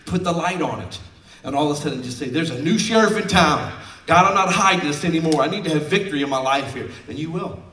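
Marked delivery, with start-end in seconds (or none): 2.3-6.9 bold declaration. Acted. Congregant declares victory.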